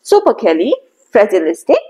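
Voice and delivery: slow chunked syllables, each chunk said on its own; teacher drilling the word part by part; slow part-by-part pronunciation drill; repeat after me drill. Shown as a demonstration. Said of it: "So, repeat after me".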